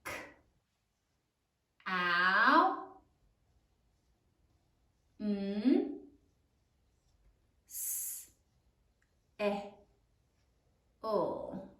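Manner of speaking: "K. Ow. N. S. E. O." drawn out, long pauses; saying while writing. Shown as a demonstration. Teacher dictates counsel as students write, sound by sound. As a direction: hold each sound in "K. Ow. N. S. E. O." separately at writing speed. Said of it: "Now say it as you write it".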